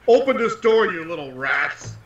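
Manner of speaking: mildly intimidating in-character command; a touch of menace, slowing on the last words; intimidating bellow. Pretend. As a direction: bellow it out with mock menace, easing off at the end. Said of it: "using my most intimidating voice, I will bell out".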